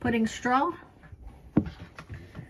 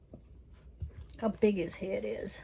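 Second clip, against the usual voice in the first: soft hushed voice; 8 dB quieter, slower than usual. Real, not acted. Quiet praise of puppy.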